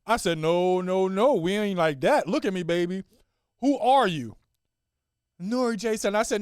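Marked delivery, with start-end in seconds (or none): 0.4-4.3 loud, insistent pep talk; firm parent pushing for an answer; rallying dad. Acted. Dad rallying sad daughter. 5.4-6.2 put-on high little-kid voice, unconvinced; reluctant little girl; half-hearted child. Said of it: "Now say it like you mean it".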